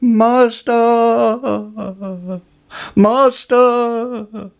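a magic harp shrieking for its master; high, loud alarm call; harp crying out. A narrator's reading. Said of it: "the harp cried".

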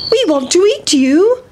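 put-on high, childlike chant; hungry kids shouting after dinner; boys' eager call. Boys chasing the pancake, high eager voice.

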